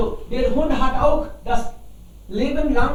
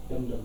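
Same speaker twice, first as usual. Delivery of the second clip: drum sound; 11 semitones lower, 8 dB quieter than usual. Shown as a demonstration. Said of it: "drum sound shown".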